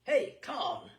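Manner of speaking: loud call across the room. A narrator's reading. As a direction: shout for a colleague to come. Waiter calls another waiter.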